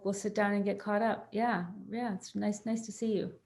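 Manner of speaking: hesitant, accommodating host, softening at the end; mildly flustered passive friend. Acted. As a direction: stammer through a welcome you can't refuse. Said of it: "So a passive response would be".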